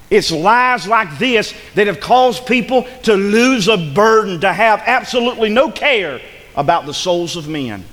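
emphatic sermon warning; forceful preaching. Real, not acted. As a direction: press the warning on the congregation with weight.

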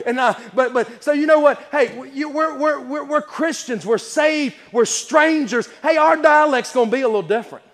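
high, insistent pulpit voice; emphatic sermon exhortation; preaching. Real, not acted. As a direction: raise the pitch and press the point. Preaches to congregation.

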